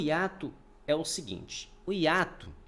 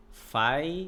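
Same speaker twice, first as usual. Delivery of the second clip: "Faixa" split as FAI, then a long gap, XA; syllable by syllable. Shown as a demonstration. Teacher showing students a falling diphthong, syllables held apart. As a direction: break the word after the diphthong. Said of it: "Perceba que o A".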